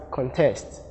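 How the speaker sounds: CONTEST with the second syllable stressed, con-TEST; verb stress. Shown as a demonstration. Teacher giving the verb form, con-TEST stressed on TEST. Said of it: "the verb form".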